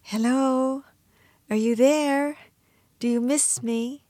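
put-on high, shy little-girl voice; bashful, girlish call with gaps between phrases; coy little girl. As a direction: coyly imitate a shy small girl, pitched well up. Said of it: "very coyly and kind of in a very shy little girl voice".

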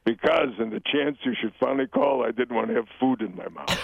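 guilt-tripping mother, hint of Jewish accent; light Jewish accent. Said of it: "a little bit of a Jewish accent".

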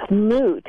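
"Moot" said with a plain oo; "Moot" with no y-glide before the vowel; standard pronunciation. Shown as a demonstration. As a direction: say "Moot" to rhyme with boot. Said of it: "What are you hearing people do with that one?".

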